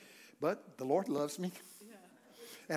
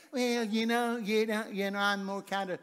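bashful churchgoer; 4 semitones higher than usual. Pretend. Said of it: "well, you're bashful".

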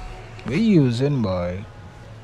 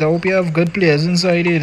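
called out louder and higher; 4 semitones higher, 5 dB louder than usual. Real, not acted. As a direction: shout it across the room to a singer. Calling out to a singer loudly.

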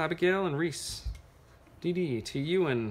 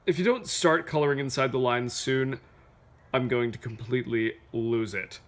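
fussy crayon letter; 5 semitones lower than usual. Acted. Reading Purple Crayon's complaint letter to Duncan, lightly exasperated. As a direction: read it as a mildly fed-up crayon.

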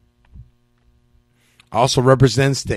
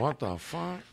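laughing; 13 dB quieter, slower than usual. Retold or imitated. Laughing while retelling own reaction.

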